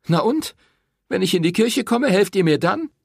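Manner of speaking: high, loud scornful challenge; woman mocking the priest's answer; bitter retort. A narrator's reading. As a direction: throw it back at him.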